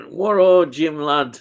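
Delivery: a mock Birmingham accent, half-joking; attempted Birmingham accent. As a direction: have a go at a Birmingham accent, not quite landing it. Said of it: "an attempt at a Birmingham accent".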